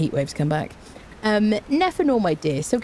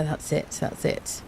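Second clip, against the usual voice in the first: breathy, voiceless that's it; whispered aside; 2 semitones lower, 6 dB quieter, slower than usual. Real, not acted. Explaining work to chat, a whispered aside. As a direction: drop to a whisper.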